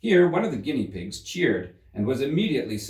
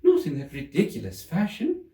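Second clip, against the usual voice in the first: high, huffy little voice; a small creature sulking off; sulky Dormouse; 8 semitones higher than usual. Acted. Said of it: "got up very sulkily".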